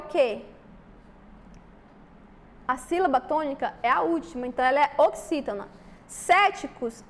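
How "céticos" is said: CÉticos with the first syllable punched higher; stressed syllable. Shown as a demonstration. Teacher showing students the tonic syllable, CÉticos stressed. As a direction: lean hard on the CÉ of Céticos. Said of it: "a sílaba tônica é a antepenúltima".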